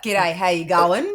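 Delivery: slow, low Australian greeting; real Australian g'day. Shown as a demonstration. Australian guest showing the host, real Australian accent. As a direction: show them an authentic Australian g'day. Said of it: "Do we want a real g'day?".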